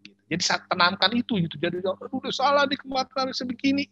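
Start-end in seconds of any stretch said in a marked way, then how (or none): 1.8-3.9 high-pitched imitation of someone fretting; mock regret. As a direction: whine over a mistake in a put-on high voice. Voices someone regretting a past choice. (pura-pura menyesal dengan nada tinggi)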